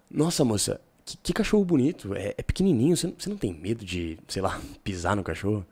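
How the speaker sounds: mostly deep, with a few lifted high words; deep flirting voice that lifts up now and then; a demo of mixing low and high notes. Shown as a demonstration. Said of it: "Você entende que teve um meio termo".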